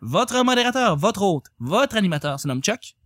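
upbeat television announcer welcome; TV host voice. Acted. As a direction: open the show like a TV host. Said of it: "t'avais une belle voix, euh, d'animateur, euh, télévision".

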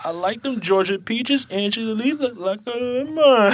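slow drawled quote. Retold or imitated. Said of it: "quoting a rapper's song".

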